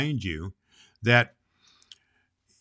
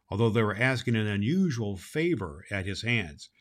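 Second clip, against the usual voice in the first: put-on lively storybook reading for children; story narration; 3 semitones higher than usual. A narrator's reading. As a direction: read it like a children's radio story. Santa reads a storybook chapter aloud.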